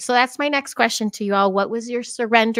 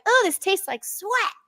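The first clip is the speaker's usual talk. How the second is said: mock disgust; 10 semitones higher than usual. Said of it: "And I'm like".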